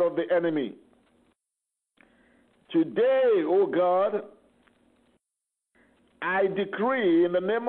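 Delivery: rising, intense preaching prayer; fervent prayer. Acted. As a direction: declare it like a battle decree. Declares a spiritual warfare prayer.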